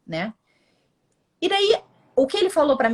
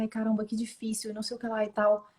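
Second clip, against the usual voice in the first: quiet sigh; 7 dB quieter than usual. Retold or imitated. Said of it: "fiquei chorando, chorando".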